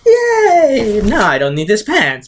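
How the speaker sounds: high-pitched gleeful squeal easing down; hammed-up high kiddie glee; excited kid. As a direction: cheer like an overjoyed little boy. Voicing excited adopted son dressing up.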